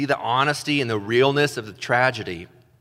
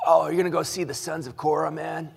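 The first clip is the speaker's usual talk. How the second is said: lightly voiced buddy, quick and chummy; mock friend; 4 semitones higher than usual. Pastor playing a joking friend, a quick chummy voice. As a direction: toss it off like a pal joking.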